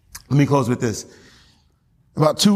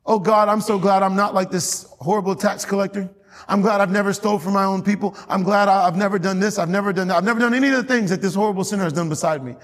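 lightly voiced Pharisee's prayer, higher pitched; self-righteous Pharisee praying; 4 semitones higher than usual. Pharisee thanking God he's unlike the tax collector, mildly self-righteous. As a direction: recite a proud prayer in a raised pitch. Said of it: "And the Pharisee cried out".

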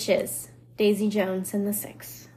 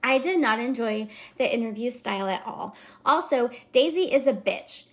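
lightly voiced Valley Girl reviewer; mildly catty Valley Girl reading. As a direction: read it with a hint of Valley Girl. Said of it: "the Valley Girl kind of is my go-to voice".

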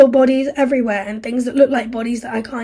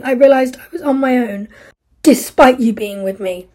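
furious despair; 3 semitones higher, 7 dB louder than usual. Acted. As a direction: drive her away for good. Steve pushes Isla away.

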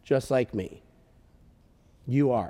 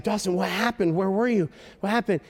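higher-pitched, urgent questioning; concerned parent; 4 semitones higher, faster than usual. Retold or imitated. Father to his found son, concerned questioning. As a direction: question the child with raised pitch.

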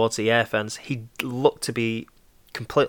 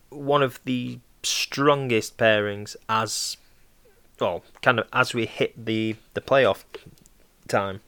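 choking, speaking through a cough; words strained by water gone down wrong. Real, not acted. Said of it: "Sorry, I'm just choking on water".

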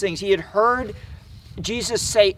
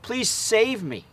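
slow, higher-pitched retold plea; crying out; 5 semitones higher, slower than usual. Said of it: "he cried out to him".

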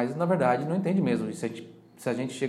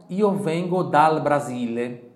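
slow model answer; 2 semitones higher, 5 dB louder, slower than usual. Shown as a demonstration. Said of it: "Mais uma vez, em voz alta".

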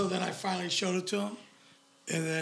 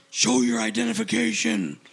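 mock aggressive cop demanding compliance; imitated aggressive police order; 4 semitones higher, 3 dB louder than usual. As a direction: raise pitch, bark it like an officer. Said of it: "the cop starts getting really aggressive".

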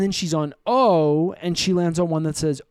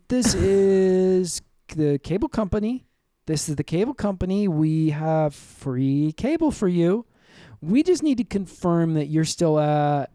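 fake customer service; 4 semitones higher than usual. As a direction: pretend to be a chirpy cable rep. Fake cable company call.

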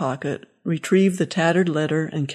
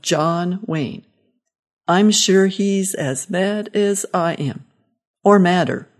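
put-on old man dictating; slower than usual. Father dictates angry letter aloud.

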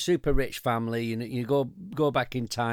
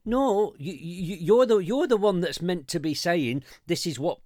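indignant outburst; 6 semitones higher, 3 dB louder than usual. Real, not acted. Ranting back at the PM.

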